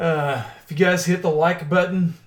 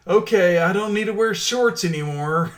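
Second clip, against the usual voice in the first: amused mock realisation; 4 semitones higher, 4 dB louder than usual. Acts out newcomer from Brazil, laughing.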